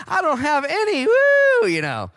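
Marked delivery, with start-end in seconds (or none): 0.1-1.1 high, loud put-on voice; hammed-up high voice confessing no church; mock sheepish reply. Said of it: "acted reply in dialogue". 1.1-1.7 very high, loud whoop; hammed-up squealing woo; mock shocked woo. Reaction to acted dialogue.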